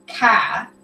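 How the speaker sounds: car with the r dropped, "cah"; Texas pronunciation. Shown as a demonstration. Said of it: "They say "car".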